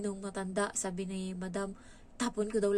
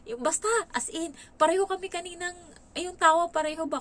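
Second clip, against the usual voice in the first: higher and louder, bubbling with excitement; excited, laughing; 8 semitones higher, 6 dB louder than usual. Real, not acted. Telling viewers how the new maid laughs just like her, excited. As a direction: gush about how alike their laughs are.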